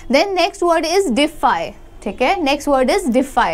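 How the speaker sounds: very slow, drawn out for repeating; slow word drill. Shown as a demonstration. Teacher slowly drills defy for students. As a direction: lay out each word slowly for learners. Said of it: "pronounce with me".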